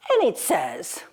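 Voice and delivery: ordinary delivery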